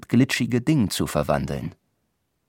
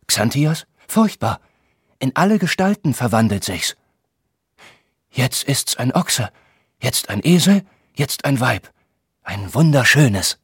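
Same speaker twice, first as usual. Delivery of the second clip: recited monster report; 4 semitones higher than usual. Acted. Xanthias describes the Empusa in the recital, hammed-up awe. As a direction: describe a shape-shifting beast with relish. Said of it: "sprach in unterschiedlichen Stimmlagen".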